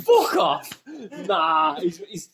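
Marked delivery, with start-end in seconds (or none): 0.0-0.8 loud indignant shout. Real, not acted. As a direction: yell it in protest. Shouted protest at being wrong.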